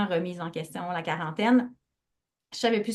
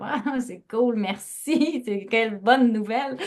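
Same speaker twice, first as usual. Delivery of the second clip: laughing sarcasm; 3 semitones higher than usual. Retold or imitated. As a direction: laugh through a sarcastic thank-you. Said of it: "Là, j'étais comme".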